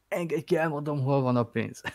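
Hungarian with a mock English accent. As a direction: say it like Lugosi with English vowels. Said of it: "teljes beleéléssel, angol kiejtéssel". (angol akcentusú magyar, beleéléssel)

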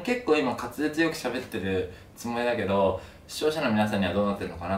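slurred speech after tooth extraction; after wisdom teeth. Real, not acted. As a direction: talk with a sore mouth.

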